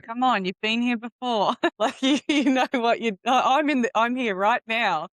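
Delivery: high, loud, laughing protest; laughing tease. Real, not acted. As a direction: tease her through a laugh. Teasing about a silly teenage age.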